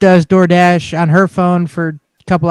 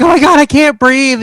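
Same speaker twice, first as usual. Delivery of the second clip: higher-pitched pretend alarm; mock panic; 8 semitones higher, 4 dB louder than usual. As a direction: act out a swimmer's panic, lightly. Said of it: "you, like, panic to get up".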